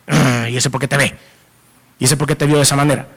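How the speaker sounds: a husband muttering suspicion at a rival; lightly voiced jealous grumble; mock jealous husband. Husband jealous of man looking.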